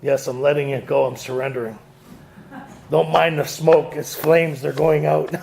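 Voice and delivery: mock monk-like calm. Claiming calm sobriety at work, mock monk serenity. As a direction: pretend serenity, low and hushed. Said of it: "almost monk-like".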